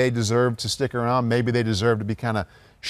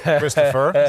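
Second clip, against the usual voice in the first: louder mock-fatherly call; imitating co-host's dad; 5 dB louder, much slower than usual. Co-host teasing him about turning forty-eight, mock dad voice. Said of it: "Sound like your dad here".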